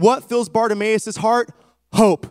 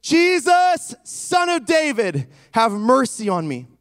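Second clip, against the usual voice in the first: crying out; 2 semitones higher than usual. Acted. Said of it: "he begins to cry out and say".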